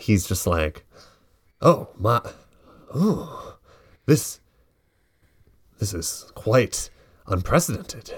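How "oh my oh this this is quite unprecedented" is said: put-on startled, surprised, caught-off-guard exclamation. Acting out a character's line after he pulls back the blanket: surprised. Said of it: "He's more, like, surprised. He's just like".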